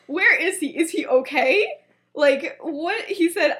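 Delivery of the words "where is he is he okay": laughing alarm. Retold or imitated. Alarmed friend in retold story.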